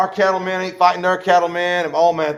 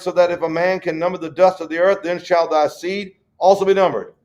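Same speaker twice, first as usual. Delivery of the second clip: scripture reading. Acted. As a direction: read the old verse with solemn weight. Reads scripture aloud.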